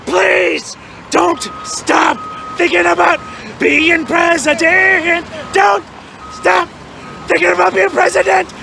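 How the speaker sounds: drawn-out begging yell; pleading shout. Acted. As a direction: shout it like a desperate fan.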